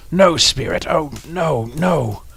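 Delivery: high, loud terrified cry; desperate plea. Acted. Scrooge begs the spirit, high and loud. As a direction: cry out in panic. Scrooge pleads at his grave.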